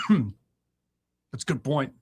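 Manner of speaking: slow, hammed-up fake emotion after clearing throat; mock choked up. Host fakes being choked up over fat kids, slow and mock-tearful. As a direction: pretend to be moved, dragging it out. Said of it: "I'm getting all choked up".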